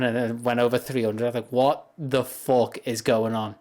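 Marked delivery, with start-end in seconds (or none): 1.5-3.5 slow, baffled self-quote. Retold or imitated. Streamer recalling checking the subscriber count, mildly baffled. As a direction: draw the question out in mild disbelief. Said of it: "just being baffled every time".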